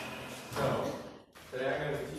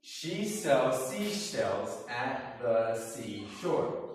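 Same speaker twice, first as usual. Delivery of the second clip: a little faster; 4 dB louder, much slower than usual. Shown as a demonstration. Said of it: "a little bit faster".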